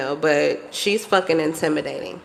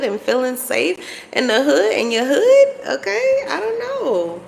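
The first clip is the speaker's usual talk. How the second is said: teasing disbelief; 5 semitones higher than usual. Real, not acted.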